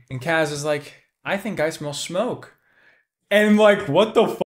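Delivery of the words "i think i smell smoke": quiet menace. Retold or imitated. Kaz's cool threat, retold softly.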